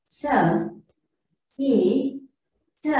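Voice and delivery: S and T said as "suh, tuh"; spaced letter sounds, schwa on S and T; wrong letter sounds. Shown as a demonstration. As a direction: sound out S, E, T with "uh" after each consonant. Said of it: "I mean the wrong sound".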